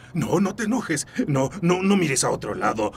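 deranged sweet-talk to an imagined son; coaxing a child. Acted. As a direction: wheedle a child who isn't there.

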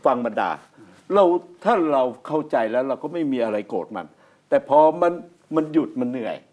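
ordinary delivery

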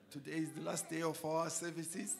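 raspy, strained hoarse voice. Real, not acted. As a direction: speak through a worn-out hoarse throat. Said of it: "I have no voice".

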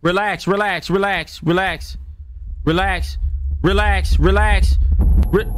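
begging it to calm down; scared horror game streamer. Real, not acted. Pleading with monster to calm.

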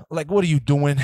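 demanding it of his own reflection; exasperated self-scolding. Retold or imitated. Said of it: "I'm like".

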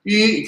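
"I" jumping straight to a high, level note; nada satu. Shown as a demonstration. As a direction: start "I" high and keep it flat. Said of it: "itu salah ya". ("I" langsung tinggi dan datar, tanpa naik)

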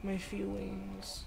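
put-on slow, whiny baby voice; childish baby voice. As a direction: pout it out like a hurt toddler. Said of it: "my childish baby voice".

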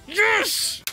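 slow, high fake crying in sarcasm; hammed-up sarcastic sob; mock sobbing. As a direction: pretend to weep over how good it is. Sarcastic praise of hated track.

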